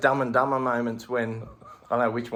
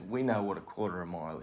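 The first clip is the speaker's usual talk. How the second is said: softer, fast, laughing aside; muttered retort; 4 semitones lower, 8 dB quieter, much faster than usual. Retold or imitated. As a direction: mumble it quickly to yourself, amused. Retorting under breath.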